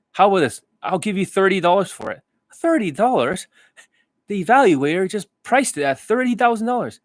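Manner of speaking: haggling customer. Retold or imitated. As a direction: play the seller bargaining up the price. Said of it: "the impressions".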